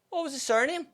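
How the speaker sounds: a hint of a mum sniffing out gossip; suspicious mum. Imitating mum quizzing her daughter about the teacher. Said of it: "And she was like".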